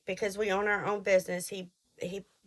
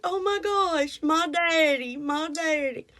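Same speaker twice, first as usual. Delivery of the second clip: much higher, mock-squealing "my daddy"; mocking classmates; 8 semitones higher, 4 dB louder, slower than usual. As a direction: parrot her with a high teasing squeal. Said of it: "They're like".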